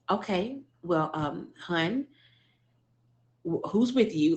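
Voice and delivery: a touch of a friend's calm concern. Retold or imitated. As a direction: quietly ask who is with her. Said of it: "And she was so calm".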